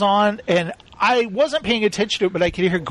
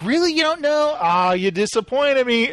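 higher, teasing disbelief; mock disbelief; 5 semitones higher than usual. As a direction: tease him for not knowing. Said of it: "And it's like".

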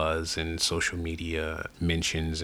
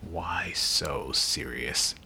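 Joker quote; much slower than usual. Retold or imitated. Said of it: "quote w- lines from comic book movies".

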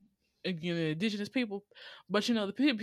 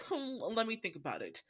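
sassy mock; 4 semitones higher than usual. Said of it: "very much sassy".

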